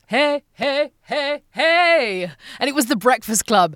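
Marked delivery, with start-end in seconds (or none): 0.1-2.3 high, loud imitated hey calls; jocks calling out. Teens shouting in the school hall, loud mock calls. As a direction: mimic teens hollering across the hall. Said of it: "all I could hear was".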